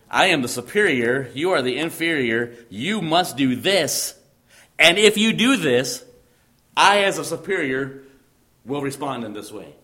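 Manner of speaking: a hint of a stern overlord laying down terms, slowing on "you must do this"; stern superior dictating terms. Preacher voicing the suzerain to his congregation, mildly commanding.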